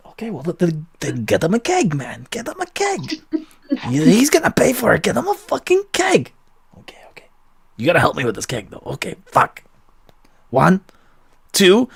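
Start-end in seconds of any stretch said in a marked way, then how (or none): 0.1-6.3 high gnome voice. Acted. Gnome and halfling bicker. 6.8-7.3 whispered okay. Acted. Barkeep whispers under the bar.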